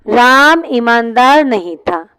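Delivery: धीरे, साफ़ एक-एक शब्द; लिखवाने की रफ़्तार से बोलो; slow dictation. Shown as a demonstration. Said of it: "जैसे मैंने बोला". (क्लास को पूरा वाक्य धीरे से दोहराता टीचर)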